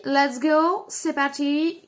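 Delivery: put-on light American accent in French. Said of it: "je prends un accent américain".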